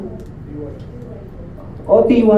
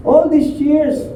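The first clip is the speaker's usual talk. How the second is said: bitter complaint; 7 semitones higher, much slower than usual. Acted. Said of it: "Sabi niya".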